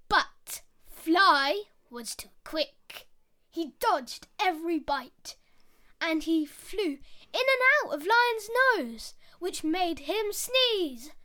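put-on lively storyteller voice for kids; story narration. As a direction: read it like a bedtime fable. Storytelling a fable.

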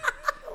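high, loud short laugh; sudden high burst of laughing. Real, not acted. Contestant amused by quizmaster's admission, laughing. Quizmaster admits never hearing the song.

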